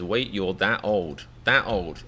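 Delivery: "that" leaned on in a slow, retold line; stress on THAT. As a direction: quote it slowly, hitting "that" before "old". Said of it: "It's the word "that" in that sentence".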